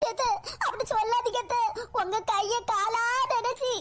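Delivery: acted, mildly tearful begging; tearful pleading. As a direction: beg like a wronged daughter-in-law. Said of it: "கதறி அழுதுட்டு இருக்காங்க".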